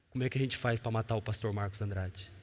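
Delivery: low, soft conspiratorial question; hushed scheming question. Retold or imitated. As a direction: ask it quietly, plotting. Pastores perguntando como matar o pastor. (pergunta baixa de conspiração)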